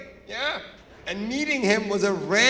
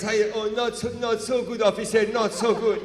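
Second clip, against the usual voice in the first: mock-pitiful Iranian complainer; lightly hammed-up woe, playing the victim; biggest victim ever; 3 semitones higher, 3 dB louder than usual. Friend pleading his state to officer, mock victim whine. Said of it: "turn into the biggest victims ever".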